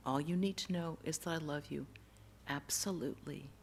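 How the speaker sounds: soft, low repeated comfort; loving reassurance. Retold or imitated. Voice keeps comforting the crying boy, soft and tender. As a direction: say it hushed and low. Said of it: "just kept saying".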